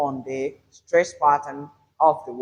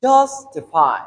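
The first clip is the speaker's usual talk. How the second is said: "Justify" with JUS loud, rest falling away; stressed first syllable; 5 dB louder than usual. Shown as a demonstration. Teacher lets learners hear the strong syllable, JUS stressed. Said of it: "We hear this one more".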